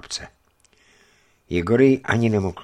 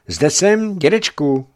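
put-on eager boy; 9 semitones higher, 8 dB louder, slower than usual. Boy answers his grandfather.

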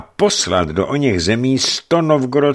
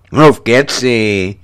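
curt interruption; 5 dB louder, much slower than usual. A narrator's reading. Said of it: "přerušil jej důchodní Feodor".

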